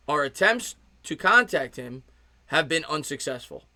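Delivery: slow, measured read-out of a notice; formal announcement with spaced pauses; official statement read. Real, not acted. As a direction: read it deliberately, phrase by phrase.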